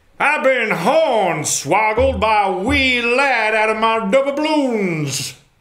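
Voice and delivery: put-on Southern gentleman accent. Taking a turn after others try the voice: southern gentleman accent. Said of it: "and the accent is".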